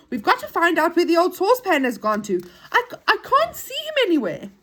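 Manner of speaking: high, loud, urgent storybook character; worried searcher. Acted. Moonface searches for the missing saucepan man, urgent.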